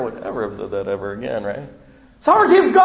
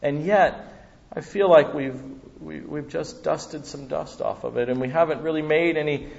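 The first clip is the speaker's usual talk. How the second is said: fervent prayer; 3 semitones higher than usual. Acted. Pastor leads closing prayer.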